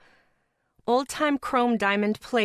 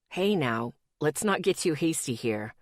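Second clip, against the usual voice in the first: lightly voiced boyfriend; 4 semitones lower than usual. Boyfriend's texts.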